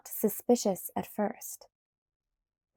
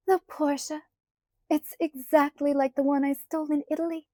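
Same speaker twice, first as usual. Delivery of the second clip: happy sigh; 6 semitones higher than usual. A narrator's reading. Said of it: "she sighed happily".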